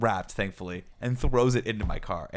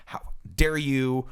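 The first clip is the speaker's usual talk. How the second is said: raised, higher pitched retold yelling at pedestrians; a driver yelling at two dudes walking their dog, retold in a pitched-up shout; mock screaming; 7 semitones higher than usual. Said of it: "I'm actually screaming this at these guys".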